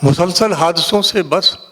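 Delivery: measured mushaira recital with long pauses; poetry recitation. Acted. Poet reciting a couplet to a mushaira audience, declaimed. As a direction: recite the verse phrase by phrase.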